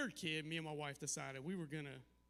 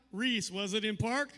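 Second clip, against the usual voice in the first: pressing dad; 2 semitones higher, 8 dB louder than usual. Retold or imitated. Dad pressing daughter on phone.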